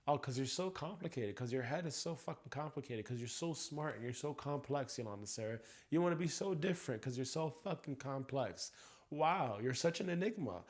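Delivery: sneering sarcasm, dragging out each so; mock her for thinking she's so complex; sarcastic mockery. Venting at the mother with biting sarcasm.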